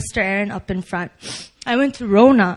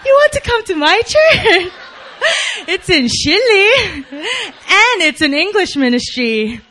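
Hyojin's high-pitched voice; 10 semitones higher, 7 dB louder than usual. Retold or imitated. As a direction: imitate a friend's bubbly, high-pitched invitation. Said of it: "high-pitched voice".

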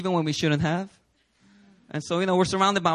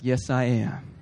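sincere acceptance; 4 semitones lower, 3 dB quieter, slower than usual. Retold or imitated. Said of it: "receive it by faith".

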